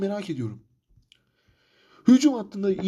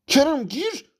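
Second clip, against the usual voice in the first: exasperated shout; 8 semitones higher, much slower than usual. Real, not acted. Gamer yells at his player to come on, exasperated shout. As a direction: yell the order at the screen.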